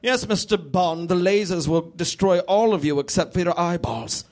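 hammed-up evil mastermind; Bond villain. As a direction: gloat like a spy-film mastermind. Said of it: "Like a Bond villain".

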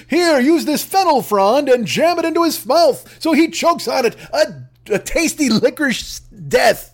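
hint of genteel menace; playful mock cruelty; mock rich lady. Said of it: "she'd be like".

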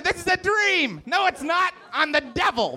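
hammed-up devil spooking a kid; devil in a dream. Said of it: "And I said".

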